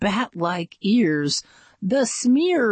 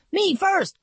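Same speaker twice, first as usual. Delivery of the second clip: grunted; 13 semitones higher than usual. A narrator's reading. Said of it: "grunted Jeremy".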